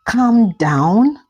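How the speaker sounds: a rising, disbelieving "Calm down?"; incredulous anger. Acted. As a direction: throw "Calm down?" back as a question. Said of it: "Shade said angrily".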